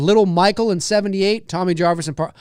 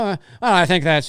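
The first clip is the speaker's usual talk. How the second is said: mild mid-Atlantic lilt on well; lightly sophisticated mid-Atlantic accent. Shown as a demonstration. Demonstrating the taught mid-Atlantic accent, lightly. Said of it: "it's just very much like this".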